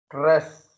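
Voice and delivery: "stress" punched on the R. Shown as a demonstration. Teacher demonstrating a stressed letter to students, hard R in "stress". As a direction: say "stress" with a forceful R. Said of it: "R is being stressed".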